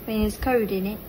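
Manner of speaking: lightly put-on British, ISN'T IT as "innit"; casual British imitation; British accent. Shown as a demonstration. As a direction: toss it off in mock British. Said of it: "Like that".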